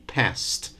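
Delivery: past said slowly as one syllable; slow teacher's model of past; same pronunciation. Shown as a demonstration. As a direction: past with a clear voiceless st ending. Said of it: "You say the same".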